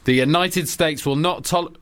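slow, lightly acted stern president; Obama. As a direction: deliver the warning slowly, as a mock statesman. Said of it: "And I'm playing Obama".

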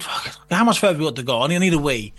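urgent whispered plea, needing a wee; retold whisper. Whispering to the cameraman, desperate for a wee. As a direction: hiss it out, desperate to pee.

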